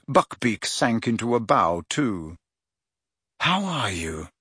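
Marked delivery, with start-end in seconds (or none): 3.4-4.3 soft, quiet greeting; low voice. A narrator's reading. Harry greets Buckbeak, low voice. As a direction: murmur gently to the creature. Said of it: "asked him in a low voice".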